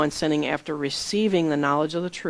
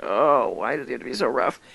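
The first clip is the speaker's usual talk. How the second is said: cringing groan; 5 semitones lower than usual. Retold or imitated. Retelling own reaction to Edgar's rough words, cringing groan. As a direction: groan it inwardly, recalling your own cringe. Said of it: "I just cringed".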